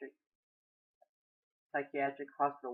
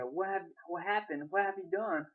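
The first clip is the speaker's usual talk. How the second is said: raised voice, higher and louder; shouted; 5 semitones higher, 4 dB louder, slower than usual. A narrator's reading. Husband shouting at Maria over their children, shouted. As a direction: shout it out in stunned demand. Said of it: "Federico shouted".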